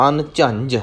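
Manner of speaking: ਅਨਝੰਝ with both jh letters clearly sounded. Shown as a demonstration. Teacher modelling for learners, ਅਨਝੰਝ with both jh articulated. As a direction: say ਅਨਝੰਝ carefully, jh at middle and end. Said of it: "ਦੋ ਝੱਜੇ ਲੱਗੇ ਹੋਏ ਨੇ".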